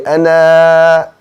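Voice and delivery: anna with a quick single N; wrong short N. Shown as a demonstration. Teacher demonstrates the wrong anna for students, clipped. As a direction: clip the N in anna. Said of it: "The wrong way".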